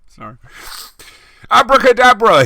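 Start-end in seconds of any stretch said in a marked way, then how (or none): 1.5-2.4 loud, high shouted spell; yelled spell. A narrator's reading. Ebony yelling a spell at Snape and Lupin, loud. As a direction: bellow the magic word. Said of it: "he yelled at Snape and Lupin".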